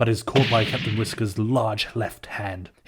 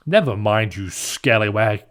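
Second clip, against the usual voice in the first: smiling; 6 dB louder than usual. Acted.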